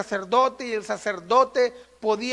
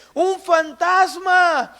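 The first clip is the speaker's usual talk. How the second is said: high, slow, louder cry of fright; frightened cry; 5 semitones higher, 5 dB louder, much slower than usual. Acted. Frightened disciples seeing a figure on the water, crying out. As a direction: cry it out in terror, drawn out.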